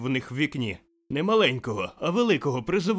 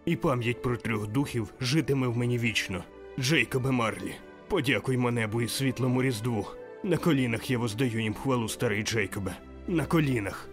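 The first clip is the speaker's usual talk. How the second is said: fervent vow. Acted. Scrooge's joyful prayer.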